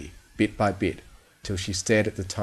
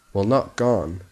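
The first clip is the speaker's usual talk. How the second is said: usual speaking voice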